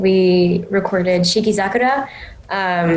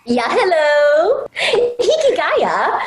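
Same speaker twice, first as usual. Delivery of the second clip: high, slow, upfront greeting; drawn-out bright greeting; Yui's voice; 9 semitones higher, much slower than usual. Pretend. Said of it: "finally, Yui".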